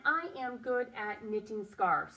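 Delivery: I am good at knitting scarves, said slowly; slow read-back. Shown as a demonstration. Teacher rereading the sentence slowly for the class. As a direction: read each word out slowly. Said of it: "This time I'm just writing".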